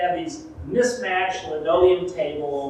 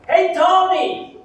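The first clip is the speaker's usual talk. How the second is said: loud, high shout across a crowd; yelled call; 12 semitones higher, 7 dB louder, slower than usual. Shown as a demonstration. Calling out to a Tony on the Jersey Shore, shouting. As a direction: yell it out to the whole street. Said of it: "and yell out".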